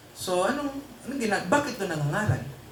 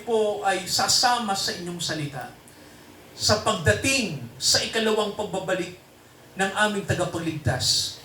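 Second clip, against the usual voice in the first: prayer; 2 semitones lower than usual. Acted. Pastor praying over the congregation at the end of the sermon, devout prayer voice. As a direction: pray over the brothers and sisters, steady and devout.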